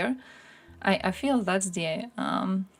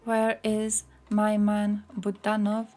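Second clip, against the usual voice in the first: "Where is my man Budanov?" stretched out slowly, each word lingering; slow drawn-out call; 3 dB louder, slower than usual. Real, not acted. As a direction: drag out "Where is my man Budanov?" like calling for him. Repeats the question, drawn out.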